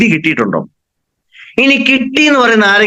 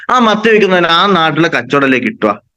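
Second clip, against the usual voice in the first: ordinary talk, nothing marked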